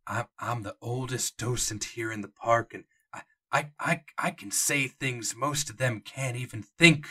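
lightly voiced old park docent, hesitant. Old docent telling the players what he cannot say, hesitant. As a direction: stammer like a guide who cannot say what he knows. GM voicing Jonah.

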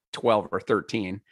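normal talking voice

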